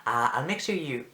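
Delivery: halting attempt at an Irish accent; wobbly Irish lady impression. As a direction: feel your way through an Irish lilt. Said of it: "I can't say that in an Irish accent".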